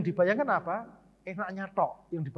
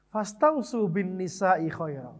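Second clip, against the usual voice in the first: slow, measured Arabic recitation, louder than his talk; Arabic hadith recitation; 3 dB louder, slower than usual. Shown as a demonstration. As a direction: recite the hadith solemnly and deliberately.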